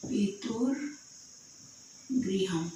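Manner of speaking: each syllable drawn out very slowly; teacher stretching पितुर्गृहम syllable by syllable; slow dictation. Shown as a demonstration. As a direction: spell the word out slowly for the class. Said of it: "पितृगृह में विच्छेद करना है".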